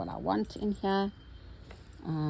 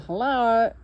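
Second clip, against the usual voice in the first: voicing the flower; 5 semitones higher, 6 dB louder, slower than usual. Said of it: "I'm saying".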